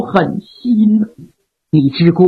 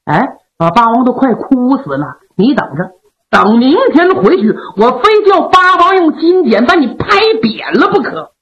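grumbling curse. Acted. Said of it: "一边暗骂老仙儿".

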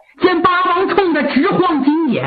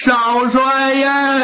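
a slow, hammed-up keening of 少帅呀; drawn-out mock wail; much slower than usual. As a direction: stretch 少帅呀 slowly into an acted mourning wail. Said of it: "哭得特别痛".

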